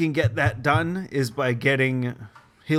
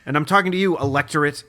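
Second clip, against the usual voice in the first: real ranting; 3 semitones higher than usual. Real, not acted. Podcaster shouting at the electorate to fire people, worked-up rant. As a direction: raise your voice as you rant at them. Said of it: "we're shouting at the".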